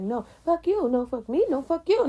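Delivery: high-pitched bickering back and forth; mock cussing match. Retelling two people cussing on the phone, mock angry. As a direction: imitate a heated phone squabble. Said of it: "cussing each other out".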